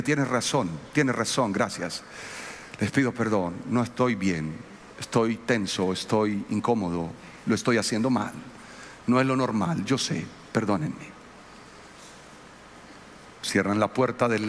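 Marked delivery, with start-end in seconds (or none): 0.0-11.1 humbled apology. Retold or imitated. Pastor retells apologizing to his daughters, low and contrite. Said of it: "y yo le dije".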